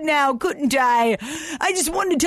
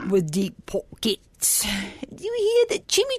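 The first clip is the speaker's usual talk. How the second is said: mystic whisper; 4 semitones lower than usual. Acted. Mystic aside to listeners.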